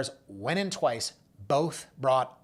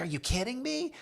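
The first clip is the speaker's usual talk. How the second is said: imitating freaking out; 11 semitones higher, 3 dB quieter than usual. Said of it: "him freaking out on the phone".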